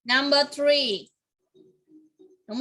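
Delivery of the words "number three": slow model answer. Shown as a demonstration. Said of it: "a cow là hình số mấy".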